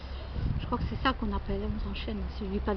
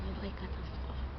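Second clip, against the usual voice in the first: whispered; 3 semitones lower, 10 dB quieter than usual. Real, not acted. Sighs over getting lost.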